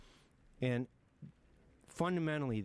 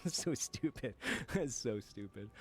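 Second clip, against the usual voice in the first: laughing. Real, not acted. Laughing at own panic story.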